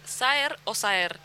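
two rival ways of saying Saer, drawn out; contraste de pronunciación. Shown as a demonstration. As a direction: say Saer twice, moving the stress between syllables. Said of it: "¿Cómo dicen ustedes?". (Saer dicho de dos maneras, despacio, cambiando el acento)

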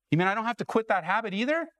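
high, quick question climbing to the end; incredulous question. Acted. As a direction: play a listener hopefully checking the loophole. Acts out incredulous churchgoer's question.

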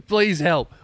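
begging viewers on Patreon, hammed up; mock plea. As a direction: beg for help, hamming it up. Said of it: "Please support me on Patreon".

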